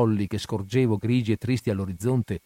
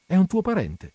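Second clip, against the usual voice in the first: timid question; 8 semitones higher than usual. A narrator's reading. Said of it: "m'arrischiai a domandare".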